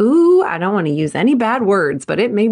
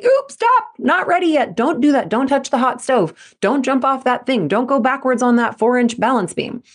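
mock alarm that starts much higher, then eases down; a lightly voiced warning brain, sharp at first; the brain's alarm; 5 semitones higher than usual. The brain warning a gymnast off the beam, mock alarm that starts much higher. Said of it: "Your brain is supposed to say".

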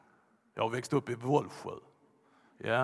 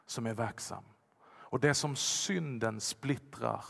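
hushed sermon; 3 semitones lower, 6 dB quieter than usual. Acted. Pastor softly telling the congregation of the Spirit's healing. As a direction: drop low and soft, reverent.

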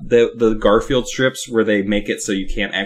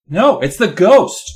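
put-on louder insistent kid voice; 8 semitones higher, 5 dB louder, slower than usual. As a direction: push it out stubbornly.

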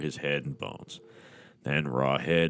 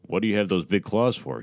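snapping; 3 semitones higher than usual. Acted. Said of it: "he snapped".

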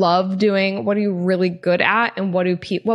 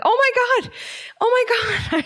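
much higher, squealing in disgust; disgusted shriek. Retold or imitated. Touching bird poop on the beach, disgusted squeal. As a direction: shriek like you touched something gross.

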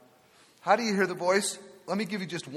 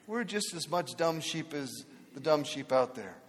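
normal talking voice

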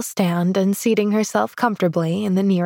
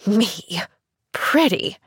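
bitter scoff; slower than usual. Acted. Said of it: "scoffed the woman, bitterly".

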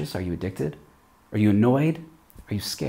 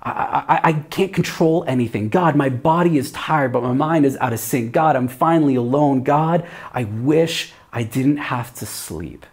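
higher, louder, restless late-night prayer; a mild, heartfelt worried plea; anxious prayer; 3 semitones higher, 3 dB louder than usual. Pretend. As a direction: pour it out to God at night, worried. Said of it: "It sounds like this".

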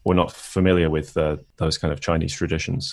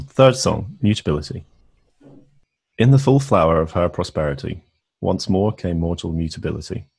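measured recital with pauses between phrases; poem reading. Acted. Host reads the translated poem aloud to co-host, measured poetry reading. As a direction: recite the verse line by line.

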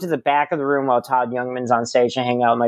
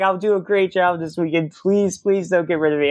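higher-pitched mock begging; retold pleading; 4 semitones higher than usual. Host promises club owner a great weekend, high pleading. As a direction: plead to keep the job, pitched up.

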